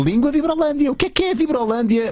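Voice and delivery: high, bright segment announcement; excited announcer. Acted. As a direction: announce it like a game show host.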